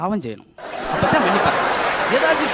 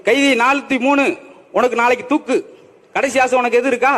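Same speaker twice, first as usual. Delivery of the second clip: raised-pitch official announcement; jail officer; 3 semitones higher, 4 dB louder than usual. Acted. Jailer asking condemned prisoner his last wish, official. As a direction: call out the prisoner's sentence formally.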